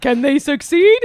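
overeager promo announcer in bunny voice; cheesy ad read. Acted. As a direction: hype the show like a cheap TV spot. Reads sponsored ad in character.

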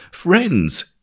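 narrator's restrained version of a shout; shouted appeal. A narrator's reading. Paul calling to the crowd, restrained shout. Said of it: "he shouted".

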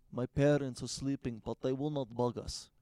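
understated mock Russian accent. Russian date mentioning her sleeping parents, light mock accent. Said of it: "'cause she was Russian".

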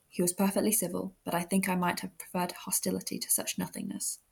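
measured, even novel reading; composed audiobook-style narration; story narration. Acted. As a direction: read it aloud like a period novel.

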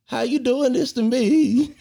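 high, slow hammed-up plea through laughter; mock wail. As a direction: stretch it out like a fake heartbreak. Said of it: "you were just like".

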